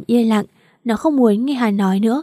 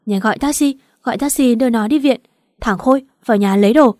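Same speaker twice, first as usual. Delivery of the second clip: panicked; 3 semitones higher, 4 dB louder than usual. Acted. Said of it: "Bà Trinh hốt hoảng".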